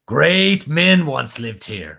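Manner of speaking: slow, drawn-out dramatic movie line; grand, stretched-out delivery; film narrator quote. Acted. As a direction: intone it slowly like an epic narrator. Acting out Mako's film line.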